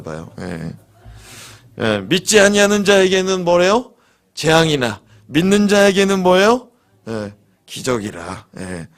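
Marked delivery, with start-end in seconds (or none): 1.8-6.7 emphatic correction. Shown as a demonstration. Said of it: "아, 거꾸로 했나?".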